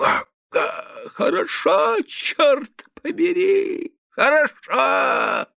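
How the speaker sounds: very high, slow drawn exclamation; exclaiming peasant. A narrator's reading. Peasant neighbour banging the table in delight, high exclamation. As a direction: blurt out delight, fist on the table. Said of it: "воскликнул".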